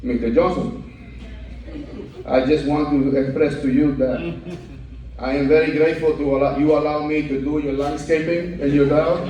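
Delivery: a hint of a bowing, deferential gardener; humble Latino. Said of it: "the good old humble Latino".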